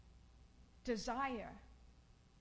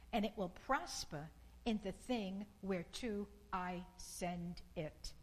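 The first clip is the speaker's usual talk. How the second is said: scripture reading. Acted. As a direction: read it out like holy words. Reading Isaiah aloud.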